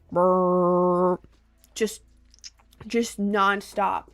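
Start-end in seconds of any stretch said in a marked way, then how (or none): 0.1-1.2 rumble imitation. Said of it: "the second it was quiet".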